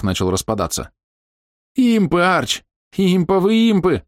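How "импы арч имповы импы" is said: panicked high shout. Acted. Panicked companion Maus.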